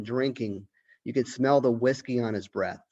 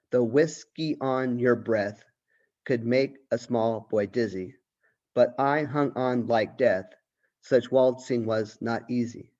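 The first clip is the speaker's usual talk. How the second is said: measured recitation of the poem; poem reading. Acted. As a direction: read each line with an even, recited rhythm. Teacher reads poem aloud.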